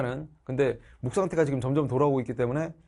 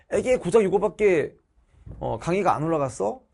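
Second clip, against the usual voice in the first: mock student complaint; 3 semitones higher, 3 dB louder than usual. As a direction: imitate a student grumbling in disbelief. 학생의 불평을 흉내 냄. (학생이 투덜대는 흉내)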